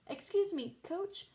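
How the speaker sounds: high sweet mom voice; a lilting, anxious mother; fussy mother. Acted.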